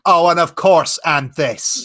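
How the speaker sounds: loud mock exclamation, then easing off; exasperated but not really annoyed; wry resignation. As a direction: throw up your hands at yet another blow. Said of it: "rather than be annoyed about it".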